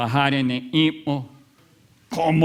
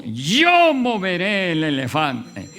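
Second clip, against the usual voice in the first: grito fanfarrón; 2 semitones higher than usual. Retold or imitated. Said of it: "alguien gritó".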